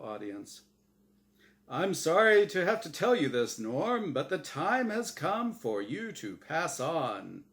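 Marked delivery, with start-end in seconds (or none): 1.7-7.4 higher, smooth host voice breaking news; oily TV host sympathy; glib host. Acted. Host telling Norm he must pass on, glib sympathy.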